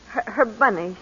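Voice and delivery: breaking into tears on the words; tearful. Acted. Mother handing over the baby's things, tearful. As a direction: choke up as the baby leaves. Baby being taken away.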